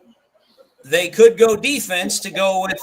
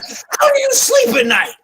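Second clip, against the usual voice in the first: mock shout; 4 dB louder than usual. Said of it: "then he's like".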